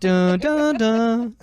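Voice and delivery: loud mock-suspense sting; dramatic "dun dun dun". Radio host capping a joke, mock-dramatic sting. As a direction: sing out a cheesy dun-dun-dun sting.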